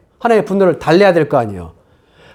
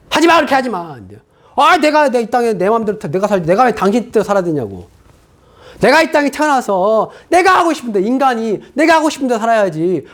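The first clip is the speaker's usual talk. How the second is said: higher, defiant back-talk rising to a peak; defiant rebel; 4 semitones higher than usual. Acted. Person defying God, quoted. (반항하며 대드는 말투)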